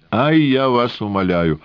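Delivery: put-on indignant old man, high and pleading; exasperated protest; angry. A narrator's reading. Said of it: "рассердился Рубинчик".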